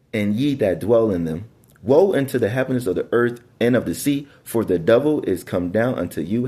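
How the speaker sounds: measured, solemn bible reading; scripture reading. Acted. Preacher reading to his congregation, solemn and measured. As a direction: read the verse out like a preacher.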